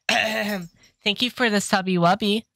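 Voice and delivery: high, drawn-out cutesy put-on voice; slow mock-cute squeak; cutesy thank-you. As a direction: thank them in a silly, sugary high voice. Putting on a thank-you for subscription.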